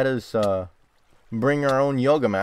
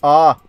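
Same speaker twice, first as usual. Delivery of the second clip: sudden loud frightened yelp; jolted by a noise in the cave; startled scream; 3 semitones higher, 11 dB louder than usual. Real, not acted. Gamer alone in a dark cave, a loud scared yelp.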